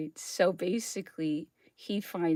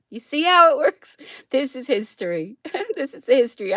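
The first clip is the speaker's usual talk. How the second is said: laughs through it, much louder and higher; laughing; 5 semitones higher, 7 dB louder, faster than usual. Real, not acted. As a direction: crow it out with a laugh. Laughing reveal.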